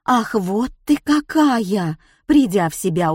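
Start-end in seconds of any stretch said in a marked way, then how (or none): 0.1-2.0 slow, scornful smirk; mocking smirk. A narrator's reading. Woman sneers at the old crone, mocking. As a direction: sneer at the ugly hag. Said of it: "усмехнулась женщина".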